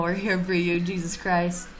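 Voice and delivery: ordinary talk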